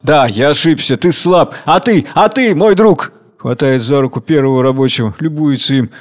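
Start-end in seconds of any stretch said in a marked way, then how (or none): 0.0-3.1 rising high on a ты, а ты; sudden warm enthusiasm; eager turn. Acted. Tsar turns to a worker. (восторженно)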